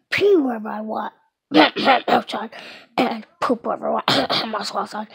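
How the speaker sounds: lightly voiced dog, half whispered; pretend dog. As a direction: play the dog telling about its day. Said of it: "Today I'm gonna be like".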